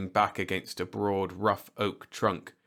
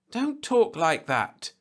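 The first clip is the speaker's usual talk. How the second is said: slow, higher, louder annoyed retort; annoyed snap; 11 semitones higher, 5 dB louder, slower than usual. A narrator's reading. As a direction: cut him off, irritated. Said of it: "she snapped with annoyance".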